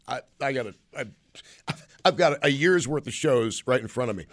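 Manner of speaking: hiccuping mid-sentence; talking through hiccups. Real, not acted. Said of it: "I apologize for the hiccups".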